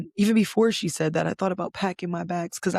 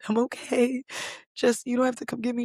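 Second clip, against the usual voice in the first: crying; 6 semitones higher than usual. Retold or imitated. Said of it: "while I'm bawling my eyes out crying".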